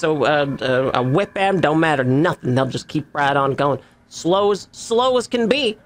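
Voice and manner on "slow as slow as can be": folksy NPC voice. Acted. GM voices NPC describing fluves.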